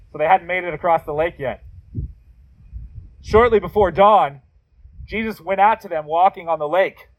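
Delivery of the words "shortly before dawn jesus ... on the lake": scripture reading. Acted. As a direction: read the story to the congregation. Reads scripture passage aloud.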